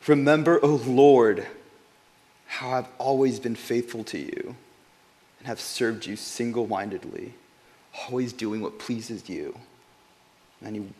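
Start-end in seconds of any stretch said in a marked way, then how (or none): 0.1-9.6 a hint of King Hezekiah begging God; praying king. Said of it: "how he prays. Listen, listen to this".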